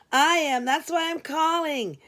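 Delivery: breezy and sweet; amiable Glenda. Acted. Late receptionist cheerfully admitting it's her shift. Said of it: "quite amiably".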